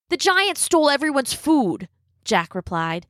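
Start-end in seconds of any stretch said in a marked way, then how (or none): 0.1-1.9 put-on young boy voice. A narrator's reading. Boy answering his mother.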